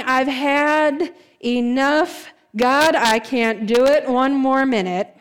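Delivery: drawn-out, worn-down plea to God; slow, emphatic exasperation; fed up. Acted. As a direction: stretch it out like someone at the limit. Worn-down person cries to God.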